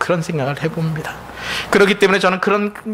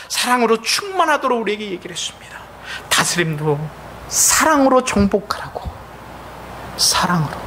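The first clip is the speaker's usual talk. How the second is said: dropped to a whisper; 3 semitones higher than usual. Real, not acted. Climax of the love refrain.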